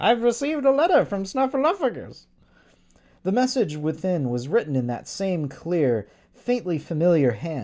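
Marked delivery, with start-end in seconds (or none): 0.0-2.3 very high-pitched giant bird puppet voice. Retelling a bit where Big Bird gets a letter, saying his line in a Big Bird voice. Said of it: "this is my Big Bird voice".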